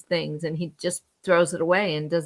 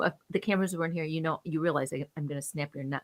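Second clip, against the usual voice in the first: menacing threat; 3 semitones lower, 5 dB quieter, faster than usual. Retold or imitated. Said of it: "that's what Alec Baldwin said".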